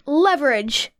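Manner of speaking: Leverage. said slowly and falling, as if tasting it; savoring the word. Shown as a demonstration. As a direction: roll Leverage. around, pleased with the new word. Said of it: "Good word".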